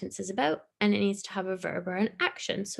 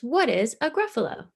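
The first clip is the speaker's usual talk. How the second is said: owl asking; 4 semitones higher, 4 dB louder than usual. Acted. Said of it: "asked the owl".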